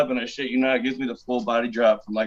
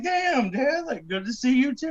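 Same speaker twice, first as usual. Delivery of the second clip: sarcastic reply; 13 semitones higher than usual. Retold or imitated. His sarcastic reply to dad.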